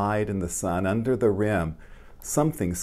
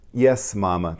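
a touch louder, eager reply; eager cry; 5 dB louder than usual. Acted. Little mole eagerly answering Mama, a mild cry. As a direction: call back eagerly. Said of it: "cried little mole".

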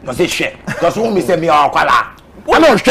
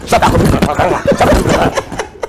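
drawn-out laughing shush; 5 semitones lower, much slower than usual. Retold or imitated. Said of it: "Recently, we say".

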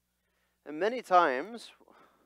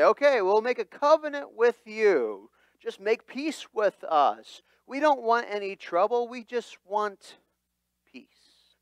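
pleading surrender; 7 semitones higher, 6 dB louder than usual. Acted. Men of Jabesh begging Nahash, higher and pleading. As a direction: give up and beg the enemy.

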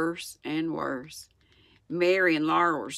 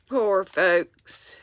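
sad whisper; 2 semitones higher than usual. Real, not acted. Sad aside about Native Americans.

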